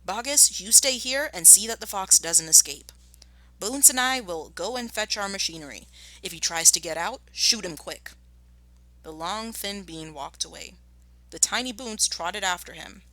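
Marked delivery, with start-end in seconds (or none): 0.0-8.1 bossy orders. Acted. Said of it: "taking charge".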